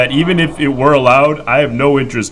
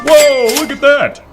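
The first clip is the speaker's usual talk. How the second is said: high, sudden whoa; surprised; 4 dB louder than usual. Real, not acted. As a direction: react with sudden delight. Sudden sub count surprise.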